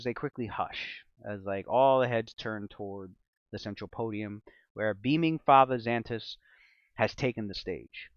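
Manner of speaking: slow, ominous storytelling voice; dramatic narration. Acted. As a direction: paint the scene with suspense.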